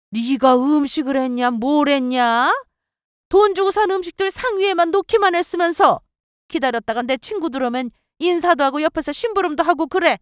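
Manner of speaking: high-pitched nagging mother-in-law; scolding mother-in-law. Acted. Mother-in-law orders her to stay and help, scolding.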